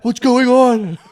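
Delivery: hammed-up kid panic with a laugh; mock panic. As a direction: imitate a frightened kid, laughing through it. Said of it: "on the verge of a panic attack".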